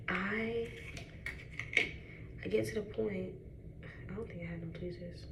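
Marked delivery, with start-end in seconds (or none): 4.1-5.2 unvoiced whisper, much softer. Real, not acted. Muttering to viewers while fixing her lashes, whispered. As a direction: breathe it out under your breath.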